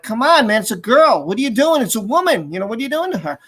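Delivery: mildly exasperated retold protest; imitating a frustrated bystander arguing. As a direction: plead in frustration, voice swinging up and down.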